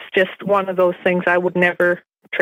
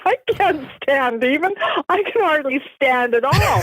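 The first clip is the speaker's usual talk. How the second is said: punchline said high, still laughing; 6 semitones higher than usual. Real, not acted. Delivering her own pun to the interviewer, laughing. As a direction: deliver the joke through giggles.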